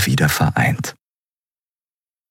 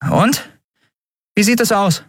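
much higher, light woman's voice; captain Endriel. A narrator's reading. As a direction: ask eagerly, lifted pitch. Endriel asks the mechanic. (hohe Frauenstimme, fragend)

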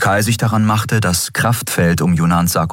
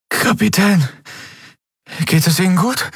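put-on high, light young voice, worried; weak boy; 13 semitones higher than usual. A narrator's reading. Miko asks his captain if she is fine, weak. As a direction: ask gently, still weak.

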